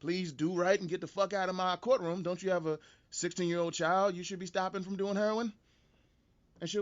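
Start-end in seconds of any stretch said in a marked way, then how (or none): 0.0-5.5 stern judge. Retold or imitated. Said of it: "and be like".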